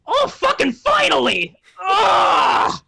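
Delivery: high, exclaimed imp cry of relief; freed imp. Acted. Imp to the one who opened its box, loud relief. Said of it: "and he goes".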